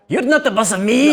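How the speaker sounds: very high, loud little-dwarf outburst; defiant yell. Acted. Little dwarf slapping a hand away, defiant yell. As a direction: yell back like a bratty little servant.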